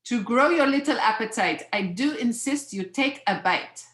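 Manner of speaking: insistent put-on French accent; French hostess with a lightly faked French accent; bad French accent. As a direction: coax a child in a mock French accent. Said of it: "I'm gonna do my bad French accent".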